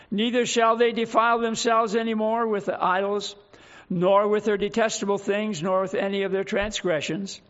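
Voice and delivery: solemn, emphatic pulpit reading; scripture reading. Acted. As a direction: read scripture out with weight to the congregation. Reads scripture aloud to congregation.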